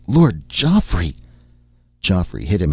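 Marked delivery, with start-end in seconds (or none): 0.1-1.2 high, slow squalling cry of a name; guard yells up from the ground, dazed; squalled. A narrator's reading. Dazed guard squalls the lord's name, high and slow.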